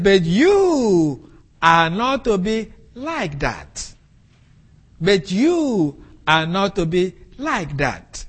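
"you" stressed, said slowly and deliberately; slow emphatic quote. Shown as a demonstration. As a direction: lean on "you", slow and weighty. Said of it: "He was being emphatic".

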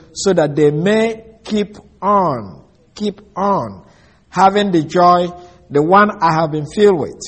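deliberate verse reading, drawn out on "keep on"; measured, emphatic quoting of scripture; slow reading. Shown as a demonstration. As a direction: stretch "keep on" and set it apart. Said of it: "read it slowly".

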